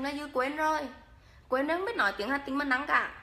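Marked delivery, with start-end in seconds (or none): 1.5-3.1 light Hà Tĩnh accent; a touch of Hà Tĩnh accent; Hà Tĩnh dialect. Shown as a demonstration. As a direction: speak it in Hà Tĩnh style. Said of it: "em nói tiếng Hà Tĩnh cho mà nghe".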